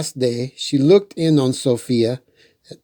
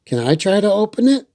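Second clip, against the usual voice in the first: put-on eager child; 6 semitones higher, faster than usual. A narrator's reading. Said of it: "Sophia asked".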